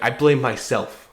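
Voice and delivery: slow, heavy mock-grave father; mock solemn dad. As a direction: ham up dad's guilt. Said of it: "he was like".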